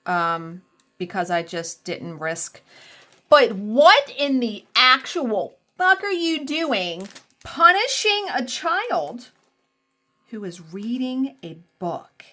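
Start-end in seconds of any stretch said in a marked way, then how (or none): 3.3-12.2 incredulous outrage. Real, not acted. Outraged at punishing a reader.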